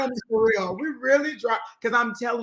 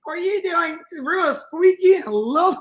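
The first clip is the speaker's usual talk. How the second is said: mocking his voice; 8 semitones higher than usual. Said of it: "how, mock it for me".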